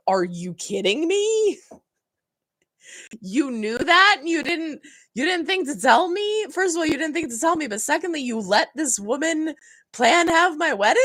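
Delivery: high-pitched mock outrage, incredulous; pissed off. Imagined reply to brother about the wedding, pissed-off. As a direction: act out indignant disbelief, pitch climbing high. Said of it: "I would be pissed".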